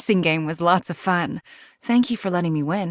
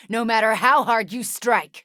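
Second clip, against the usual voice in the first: defiant shout; 5 semitones higher than usual. Acted. Refusing to fall in battle, defiant shout.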